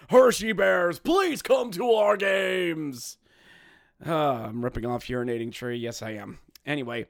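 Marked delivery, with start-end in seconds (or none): 0.1-3.2 slow, drawn-out shouted plea; slow, loud begging call; pleading shout. Pretend. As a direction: beg the crowd at the top of your voice. Begging fans to attend.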